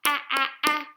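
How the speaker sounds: short "Ah", repeated in quick, punchy bursts; short A sound. Shown as a demonstration. Teacher models sounds for young readers, short clipped A. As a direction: punch out "Ah" three times as separate short vowels. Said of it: "we would stretch it out".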